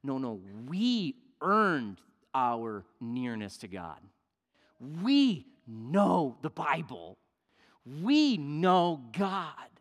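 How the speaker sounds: slow, self-satisfied religious elite; drawn out, proud of what they know; a lightly voiced smug scribe; smug Pharisee voice. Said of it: "the Pharisees and the scribes are thinking".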